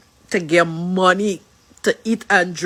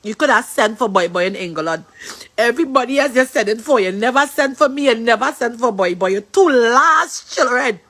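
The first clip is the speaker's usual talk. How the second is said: tearful plea. Real, not acted. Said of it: "what I'm crying about".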